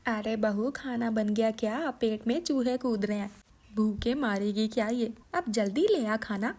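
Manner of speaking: a lightly voiced mother-in-law calling impatiently; mother-in-law calling the daughter-in-law for lunch; hungry mother-in-law. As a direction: hurry the daughter-in-law along. Mother-in-law demanding food.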